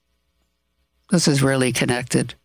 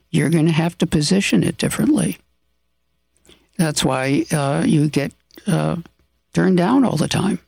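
measured, businesslike and restrained; serious voice. Shown as a demonstration. Advising colleagues at work on their pitch, restrained and serious. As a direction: coach the team calmly, keep emotion under the surface. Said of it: "I said it in a more serious voice".

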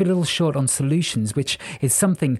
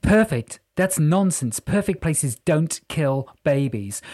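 mildly indignant, higher-pitched retort; 3 semitones higher, slower than usual. Acted. Jessica disputes that the Earth is perfect, indignant. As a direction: throw it back in disbelief, leaning on each word.

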